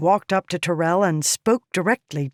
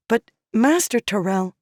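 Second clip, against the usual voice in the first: begging; 6 semitones higher than usual. A narrator's reading. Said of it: "Riala begged".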